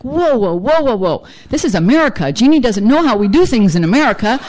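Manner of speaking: hammed-up refusal, half laughing; playing her old self, balking at an apology; mock outrage. Mock outrage at sponsor's order.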